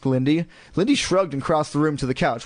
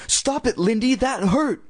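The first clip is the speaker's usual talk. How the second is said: high-pitched, upset complaint; hurt protest; 10 semitones higher than usual. A narrator's reading. Slapped girl blaming her sister, upset.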